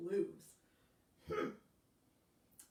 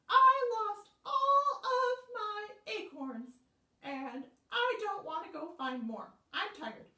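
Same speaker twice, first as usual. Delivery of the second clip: higher, louder whiny critter; whiny squirrel; 12 semitones higher, 8 dB louder than usual. Acted. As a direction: whine it out, high. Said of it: "said Squirrel".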